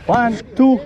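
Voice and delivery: high straining count to lift; lifting together. Real, not acted. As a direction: call the count, rising to go.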